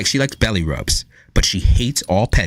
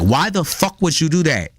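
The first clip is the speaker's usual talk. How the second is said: higher-pitched mock scolding; talking as to a person; 6 semitones higher than usual. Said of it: "talk to the motherfucker like a person".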